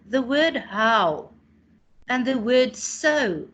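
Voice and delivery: slow example words. Shown as a demonstration. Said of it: "for example".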